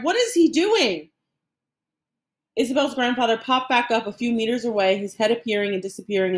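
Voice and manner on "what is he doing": high, drawn-out disbelieving cry; alarmed cry. A narrator's reading. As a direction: stretch the question out in dismay. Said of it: "Isabel's mother cried".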